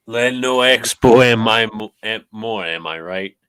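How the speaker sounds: hammy fake French accent; mock French accent. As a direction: say it like a bad French imitation. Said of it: "Are you, like, trying to speak French?".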